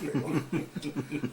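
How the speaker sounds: slow, breaking into laughter; laughing. Real, not acted. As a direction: laugh out the end of the line. Admitting his comic trick.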